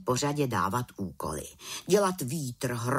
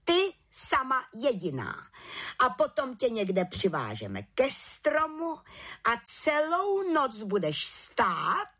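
higher, slow mocking head witch; mocking command; 9 semitones higher than usual. A narrator's reading. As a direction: sneer out the punishment. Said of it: "Posměšně jí pak přikázala". (vrchní čarodějnice posměšně přikazuje, výš a pomalu)

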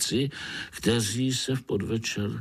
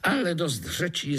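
frowning; 8 semitones higher than usual. A narrator's reading. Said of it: "zamračil se najednou komár".

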